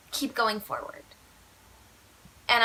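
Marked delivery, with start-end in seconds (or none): 0.0-1.0 mock stern examiner. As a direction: lay down the order like a cross examiner. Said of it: "And she's like".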